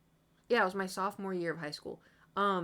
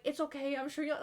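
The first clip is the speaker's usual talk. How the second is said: high, hushed classmate reassurance; imitated consoling; 7 semitones higher than usual. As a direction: imitate friends soothing someone awkwardly. Classmates consoling her after teacher's remark.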